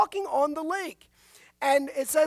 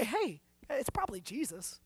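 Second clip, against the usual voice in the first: hushed aside, barely voiced; whisper; 6 dB quieter than usual. Preacher imagining a disciple's guess, whispered. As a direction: breathe it out like a guess nobody made.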